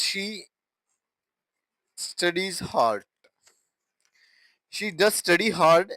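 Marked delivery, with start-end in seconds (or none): 4.7-5.9 emphatic "does study", a little raised. Shown as a demonstration. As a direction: lean on "does" before "study". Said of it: "Look at the emphasis".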